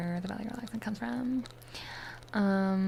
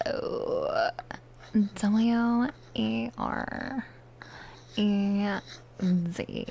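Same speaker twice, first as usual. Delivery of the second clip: letter by letter with long pauses; spelling out; much slower than usual. Real, not acted. Streamer giving a viewer a name check, spelling out. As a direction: spell it slowly, each letter drawn out.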